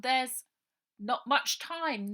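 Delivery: high, loud, slowed warning; urgent girl. Acted. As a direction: stress the hurry. Ida warning.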